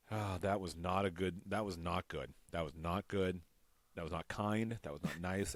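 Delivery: low, soft self-scolding; regretful self-reproach. Retold or imitated. Looking back on a cruel prank, low and regretful. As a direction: quietly admit it was wrong, low and sober. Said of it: "times in my life where I'm like".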